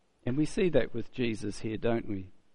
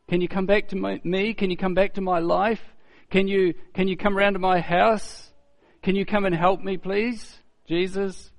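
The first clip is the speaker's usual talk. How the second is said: higher-pitched mock pleading; a touch of anxious begging; imitating desperate plea; 5 semitones higher than usual. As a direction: call out for help, lightly acted. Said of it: "we call out to Jesus".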